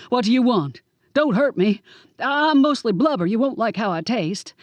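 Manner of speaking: loud pleading, a touch of fear; cowardly plea to the wolf; panicked begging. Acted. Villain begs the werewolf.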